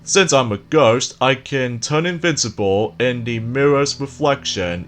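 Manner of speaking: slow, sly ghost taunt with giggles; sneaky, gloating ghost, slowly; sly nasal snickering whisper. Acted. Boss ghost taunts player.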